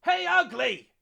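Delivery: high, piercing jeer; loud taunting call cutting through din; shouted taunt. A narrator's reading. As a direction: yell a taunt to provoke the monster. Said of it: "Banner's taunt cut through the din".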